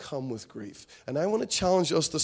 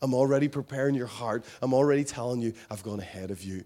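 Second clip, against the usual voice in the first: tender Jesus; 3 semitones lower than usual. Acted. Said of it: "He was all about".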